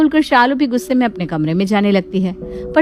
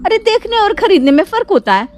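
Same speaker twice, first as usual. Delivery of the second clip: mildly angry grumbling that climbs in pitch; exasperated sister-in-law venting; annoyed rant; 4 semitones higher than usual. Acted. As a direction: complain with mounting irritation. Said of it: "छोटी छोटी बात पर गुस्सा हो जाते हैं".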